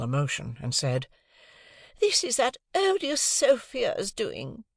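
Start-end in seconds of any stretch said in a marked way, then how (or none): 2.0-4.6 shrill, indignant lady of the house; high, offended and superior; haughty high lady. A narrator's reading. Missus Pocket blames Sophia.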